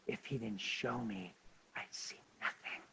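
soft, low, fading to whisper; hushed humility. Real, not acted. Preacher admitting dependence on God, hushed humility. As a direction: drop away almost to breath. Hushed humble point to congregation.

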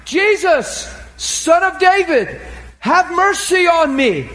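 high, slow pleading cry for mercy. Acted. Blind Bartimaeus begs Jesus by the road, slow and pleading. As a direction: beg him for mercy, drawn out.

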